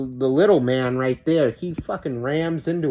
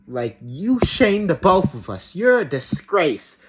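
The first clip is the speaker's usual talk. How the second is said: mock quoting the scolding; 4 semitones higher, 3 dB louder than usual. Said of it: "the audacity in her voice".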